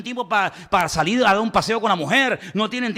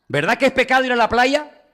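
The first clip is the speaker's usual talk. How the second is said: insistent lady; 6 semitones higher than usual. Retold or imitated. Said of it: "Ella esperaba que yo dijera".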